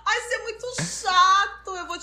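lightly voiced petite girl, slow and playful; a hint of a cutesy short girl teasing; pique-me girl. Friend imitating a petite girl teasing Pedro, playful. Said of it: "As meninas pique-me que falam".

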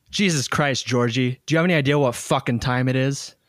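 put-on mild Italian-American accent, a bit fast and irritated; lightly Italian, snapping at a late-night caller. Irritated at a 2 AM caller, lightly Italian accented. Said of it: "you said that with an Italian accent".

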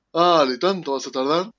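lightly acted nagging friend; a touch of playful impatience; impatient friend. Friend waiting for him to finish trying on clothes, lightly mock impatience. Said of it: "como si fueran dos amigas esperando".

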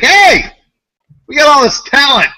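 high, loud company cheer; over-hyped, high-pitched mockery; mock boastful Nintendo. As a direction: crow it like a clueless show-off. Voicing Nintendo as clueless and boastful.

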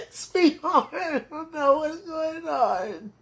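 slow words through laughing sobs; sobbing. Real, not acted. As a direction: fall apart while speaking. Sobbing to absent loved one.

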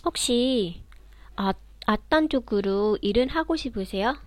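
fast linked Korean sentence; fluent Korean. Shown as a demonstration. Teacher reads an example sentence for students, fast. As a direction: read the question quickly with linking. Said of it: "Trinh sẽ đọc một câu".

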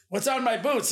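high-pitched imitated Southern challenge; Southern accent. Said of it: "he does talk in a Southern accent".

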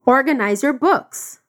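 Organize your books said slowly; slow model. Shown as a demonstration. Teacher modelling the order slowly. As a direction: lay each word down clearly. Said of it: "como que eu dou a ordem?".

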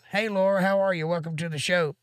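high, lively hello to a viewer; cheerful greeting. Real, not acted. Host welcoming Laura to the stream, high and upbeat. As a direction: call out a happy welcome.

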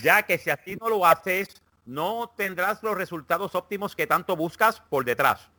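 light mock Castilian Spanish accent for a horoscope read; reading Leo's horoscope to friends in a hammed-up Spanish accent. Mock Spanish accent, Castilian lisp. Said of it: "el de Leo en el acento español".

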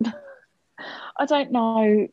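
giggling under the breath; laughing whisper. Real, not acted.

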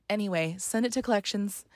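quiet, offhand dismissal; mock indifference. Agency shrugging off a debtor, mock indifferent. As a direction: toss it off like it's nothing.

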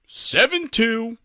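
high, drawn-out mock call; singled-out shout, high and slow; blurted score.

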